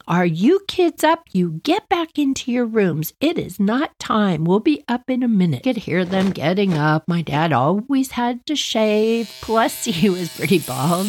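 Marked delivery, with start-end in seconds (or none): 0.1-5.6 parents yelling from the hall. Retold or imitated. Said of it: "mom and dad down the hall yelling".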